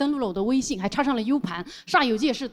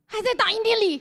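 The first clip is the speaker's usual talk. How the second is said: Thomas voice; 9 semitones higher than usual. Retold or imitated. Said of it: "托马斯".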